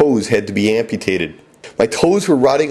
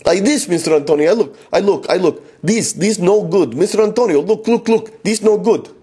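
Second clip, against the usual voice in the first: pleading student; 7 semitones higher than usual. Retold or imitated. Student pleads in broken English.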